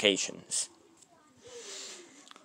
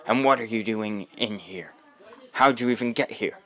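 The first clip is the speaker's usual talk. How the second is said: feminine voice; 6 dB louder than usual. Acted. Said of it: "a feminine voice say".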